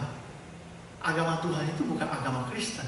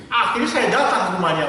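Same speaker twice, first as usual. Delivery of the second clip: louder, driving the point home; forceful preaching; 5 semitones higher, 9 dB louder than usual. Real, not acted. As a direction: push it out to the congregation. Preacher's climax. (berkhotbah dengan lantang)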